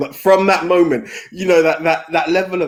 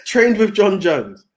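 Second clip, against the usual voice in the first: repeated slowly and higher, word by word; slow, emphatic repeat; 6 semitones higher, 3 dB louder, much slower than usual. Shown as a demonstration. Repeating it slowly for the friend who said huh, slow and clear. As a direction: spell it out slowly so he finally hears.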